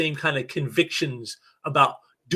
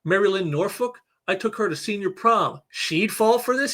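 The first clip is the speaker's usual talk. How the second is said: a higher, slowing, let-down question; disappointed disbelief; 4 semitones higher than usual. Retold or imitated. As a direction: sound crushed that she fell for it. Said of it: "almost disappointed".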